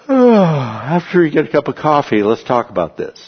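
mock casual calm.

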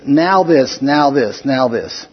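"Now this" thrice, stress on each NOW; emphatic NOW. Retold or imitated. Paul hammering his point to the Galatians, emphatic on "now". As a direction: punch "Now" each time, stepping down in pitch. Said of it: "So it's emphatic".

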